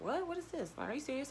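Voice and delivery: high, hushed disbelieving reading; roommate's stunned whisper-like disbelief; shocked disbelief. Retold or imitated. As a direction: react like you can't believe it.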